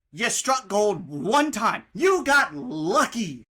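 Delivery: slow, loud mocking shout; scornful shout. Real, not acted. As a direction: drag it out with scorn. Shouting at athletic director.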